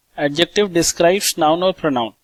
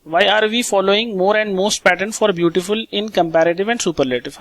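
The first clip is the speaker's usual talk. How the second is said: slow reading aloud; much slower than usual. Shown as a demonstration. Reads question slowly.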